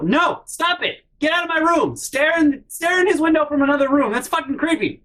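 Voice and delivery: exasperated yell. Retold or imitated. Yelling at mom to stop.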